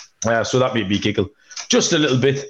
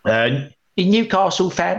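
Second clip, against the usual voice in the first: put-on Essex accent; 5 semitones higher than usual. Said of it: "Do you like this impression?".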